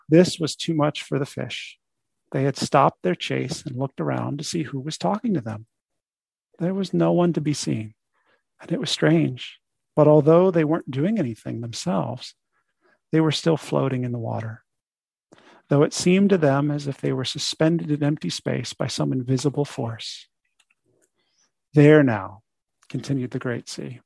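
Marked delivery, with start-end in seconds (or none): 0.1-20.3 measured storybook reading; story narration. Acted. Teacher reads a fish fable to students, story narration. 21.7-22.4 firm, reassuring "there now"; kindly soothing. A narrator's reading. Great sea to the startled fish, kindly soothing. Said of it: "doesn't get angry and shout".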